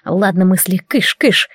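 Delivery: usual speaking voice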